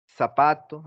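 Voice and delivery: "zapato" with a long initial s; Latin American seseo. Shown as a demonstration. Teacher showing how we say it here, seseo. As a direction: hiss the z of "zapato" as s. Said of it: "aquí decimos zapato".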